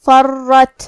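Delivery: فرت with the final ta bounced sharply; qalqala demo. Shown as a demonstration. Teacher shows how to read فرت, bouncing the final ta. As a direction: snap the last ta of فرت with a light echo. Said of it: "تو ہم یہ کلمہ کو ایسے پڑھیں گے".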